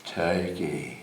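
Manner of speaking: put-on low Upper East Side accent, "Turkey" as "tie-key"; Harpo Marx. Son channelling his dad for the audience, deep Upper East Side "Turkey". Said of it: "He had a, a, an Upper East Side accent".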